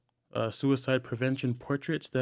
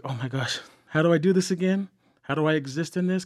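overwhelmed; 4 semitones higher, 4 dB louder, faster than usual. Retold or imitated. Retold inner overwhelm.

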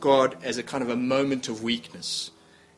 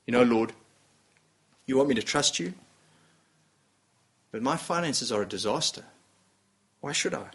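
grumbling complaint; 3 semitones lower, 3 dB quieter than usual. Retold or imitated. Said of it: "when we grumble".

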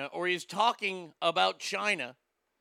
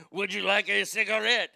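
fake French accent; 4 dB louder than usual. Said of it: "fake French accent".

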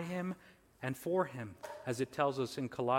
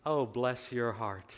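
slow, lower, mock sympathy; nice nasty; 4 semitones lower, slower than usual. Shown as a demonstration. Showing how to be nasty by being nice, nice nasty. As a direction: feign sympathy to be politely nasty. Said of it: "a way to be nasty by being nice".

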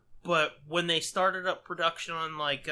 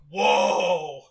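impressed whoa; 2 semitones lower, 9 dB louder than usual. Retold or imitated. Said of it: "These songs are actually like".

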